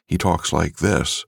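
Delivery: slow, breathy morphed actor voice; breathy character. Shown as a demonstration. Narrator shows his book character, slow breathy voice. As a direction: add breath, keep a trace of the old actor. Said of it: "a breathiness to him".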